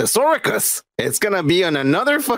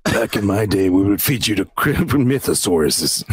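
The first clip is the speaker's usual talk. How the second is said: mock old timer; 9 semitones lower than usual.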